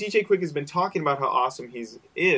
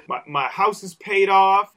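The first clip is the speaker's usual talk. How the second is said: lightly voiced boasting rapper, higher and louder; 5 semitones higher, 6 dB louder than usual. Cohost quoting a rapper's humble brags, mock proud. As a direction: brag it as a light, playful imitation. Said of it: "yeah, he's like".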